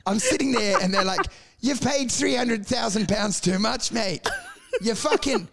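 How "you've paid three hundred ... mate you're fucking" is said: higher-pitched mock British gypsy accent; attempted gypsy accent. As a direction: imitate a gypsy tradie's accent, drawing out the bad news. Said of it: "I can't even do the accent".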